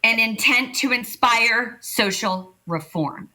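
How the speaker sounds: measured, emphatic dictionary reading; reading a definition. Real, not acted. Performer reading colleagues the definition of satire, measured recital. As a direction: announce each term as a separate item. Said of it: "I'll read you the fucking definition".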